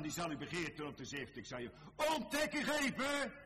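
loud, high-pitched pulpit rebuke; full-force preaching. Acted. Preacher voicing the rebuke to Peter, full-force preaching. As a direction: build to a very high, ringing shout of rebuke.

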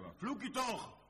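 high, loud rebuke; a sharp high cry of reproach; reproving man. Retold or imitated. A man rebuking a swearing worker, high and loud. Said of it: "die man die zegt".

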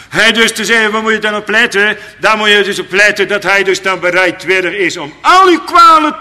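high, loud fervent preaching; preaching at full force. Acted. Preacher urging listeners what to look for, high and loud. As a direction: drive the point home to the congregation.

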